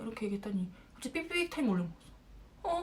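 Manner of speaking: ordinary delivery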